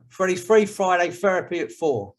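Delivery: Freddie's Free Friday Therapy at four in a light London accent. Shown as a demonstration. Host repeating his catchphrase in a light London accent. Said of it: "You have to learn to say it like that, with a London accent".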